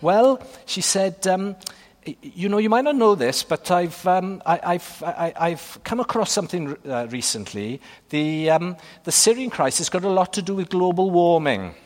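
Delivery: mild Welsh accent impression; lightly put-on Welsh accent. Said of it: "I'll give you a Welsh accent here".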